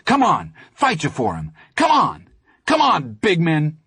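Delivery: high, loud goading; crazed taunting. Acted. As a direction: egg them on wildly. Teddy taunts bigger boys.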